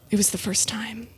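breathy shocked whisper. Real, not acted. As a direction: whisper it in awe.

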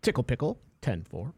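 mock CB radio trucker call; playing a trucker on a CB radio; over walkie talkie. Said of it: "I am taking Tickle Pickle as my handle".

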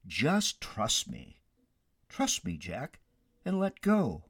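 slow, softened coaxing; acted patient, unhurried divine voice; calm reassurance. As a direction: gently urge someone to trust. The Lord calmly reassures Jack.

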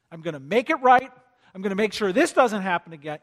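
a hammed-up angry vow; mock angry vow. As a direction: act out a hothead promising payback. Voicing an angry believer.

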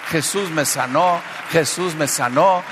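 drawn-out imitated cry of testimony; retold shouting.

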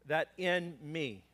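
"that in me" said slowly, leaning on "in"; slow down and stress "in me"; drawn-out "that in me" with weight on "in"; emphasis on in me. Shown as a demonstration. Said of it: "Look what it says in the text again".

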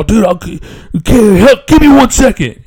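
hammed-up high flustered plea; flustered salesman. Salesman flustered, begging wait.

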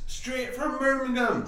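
high Jamaican hype man; Jamaican accent. Pretend. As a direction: say it Jamaican style. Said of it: "why does he go straight to Jamaica".

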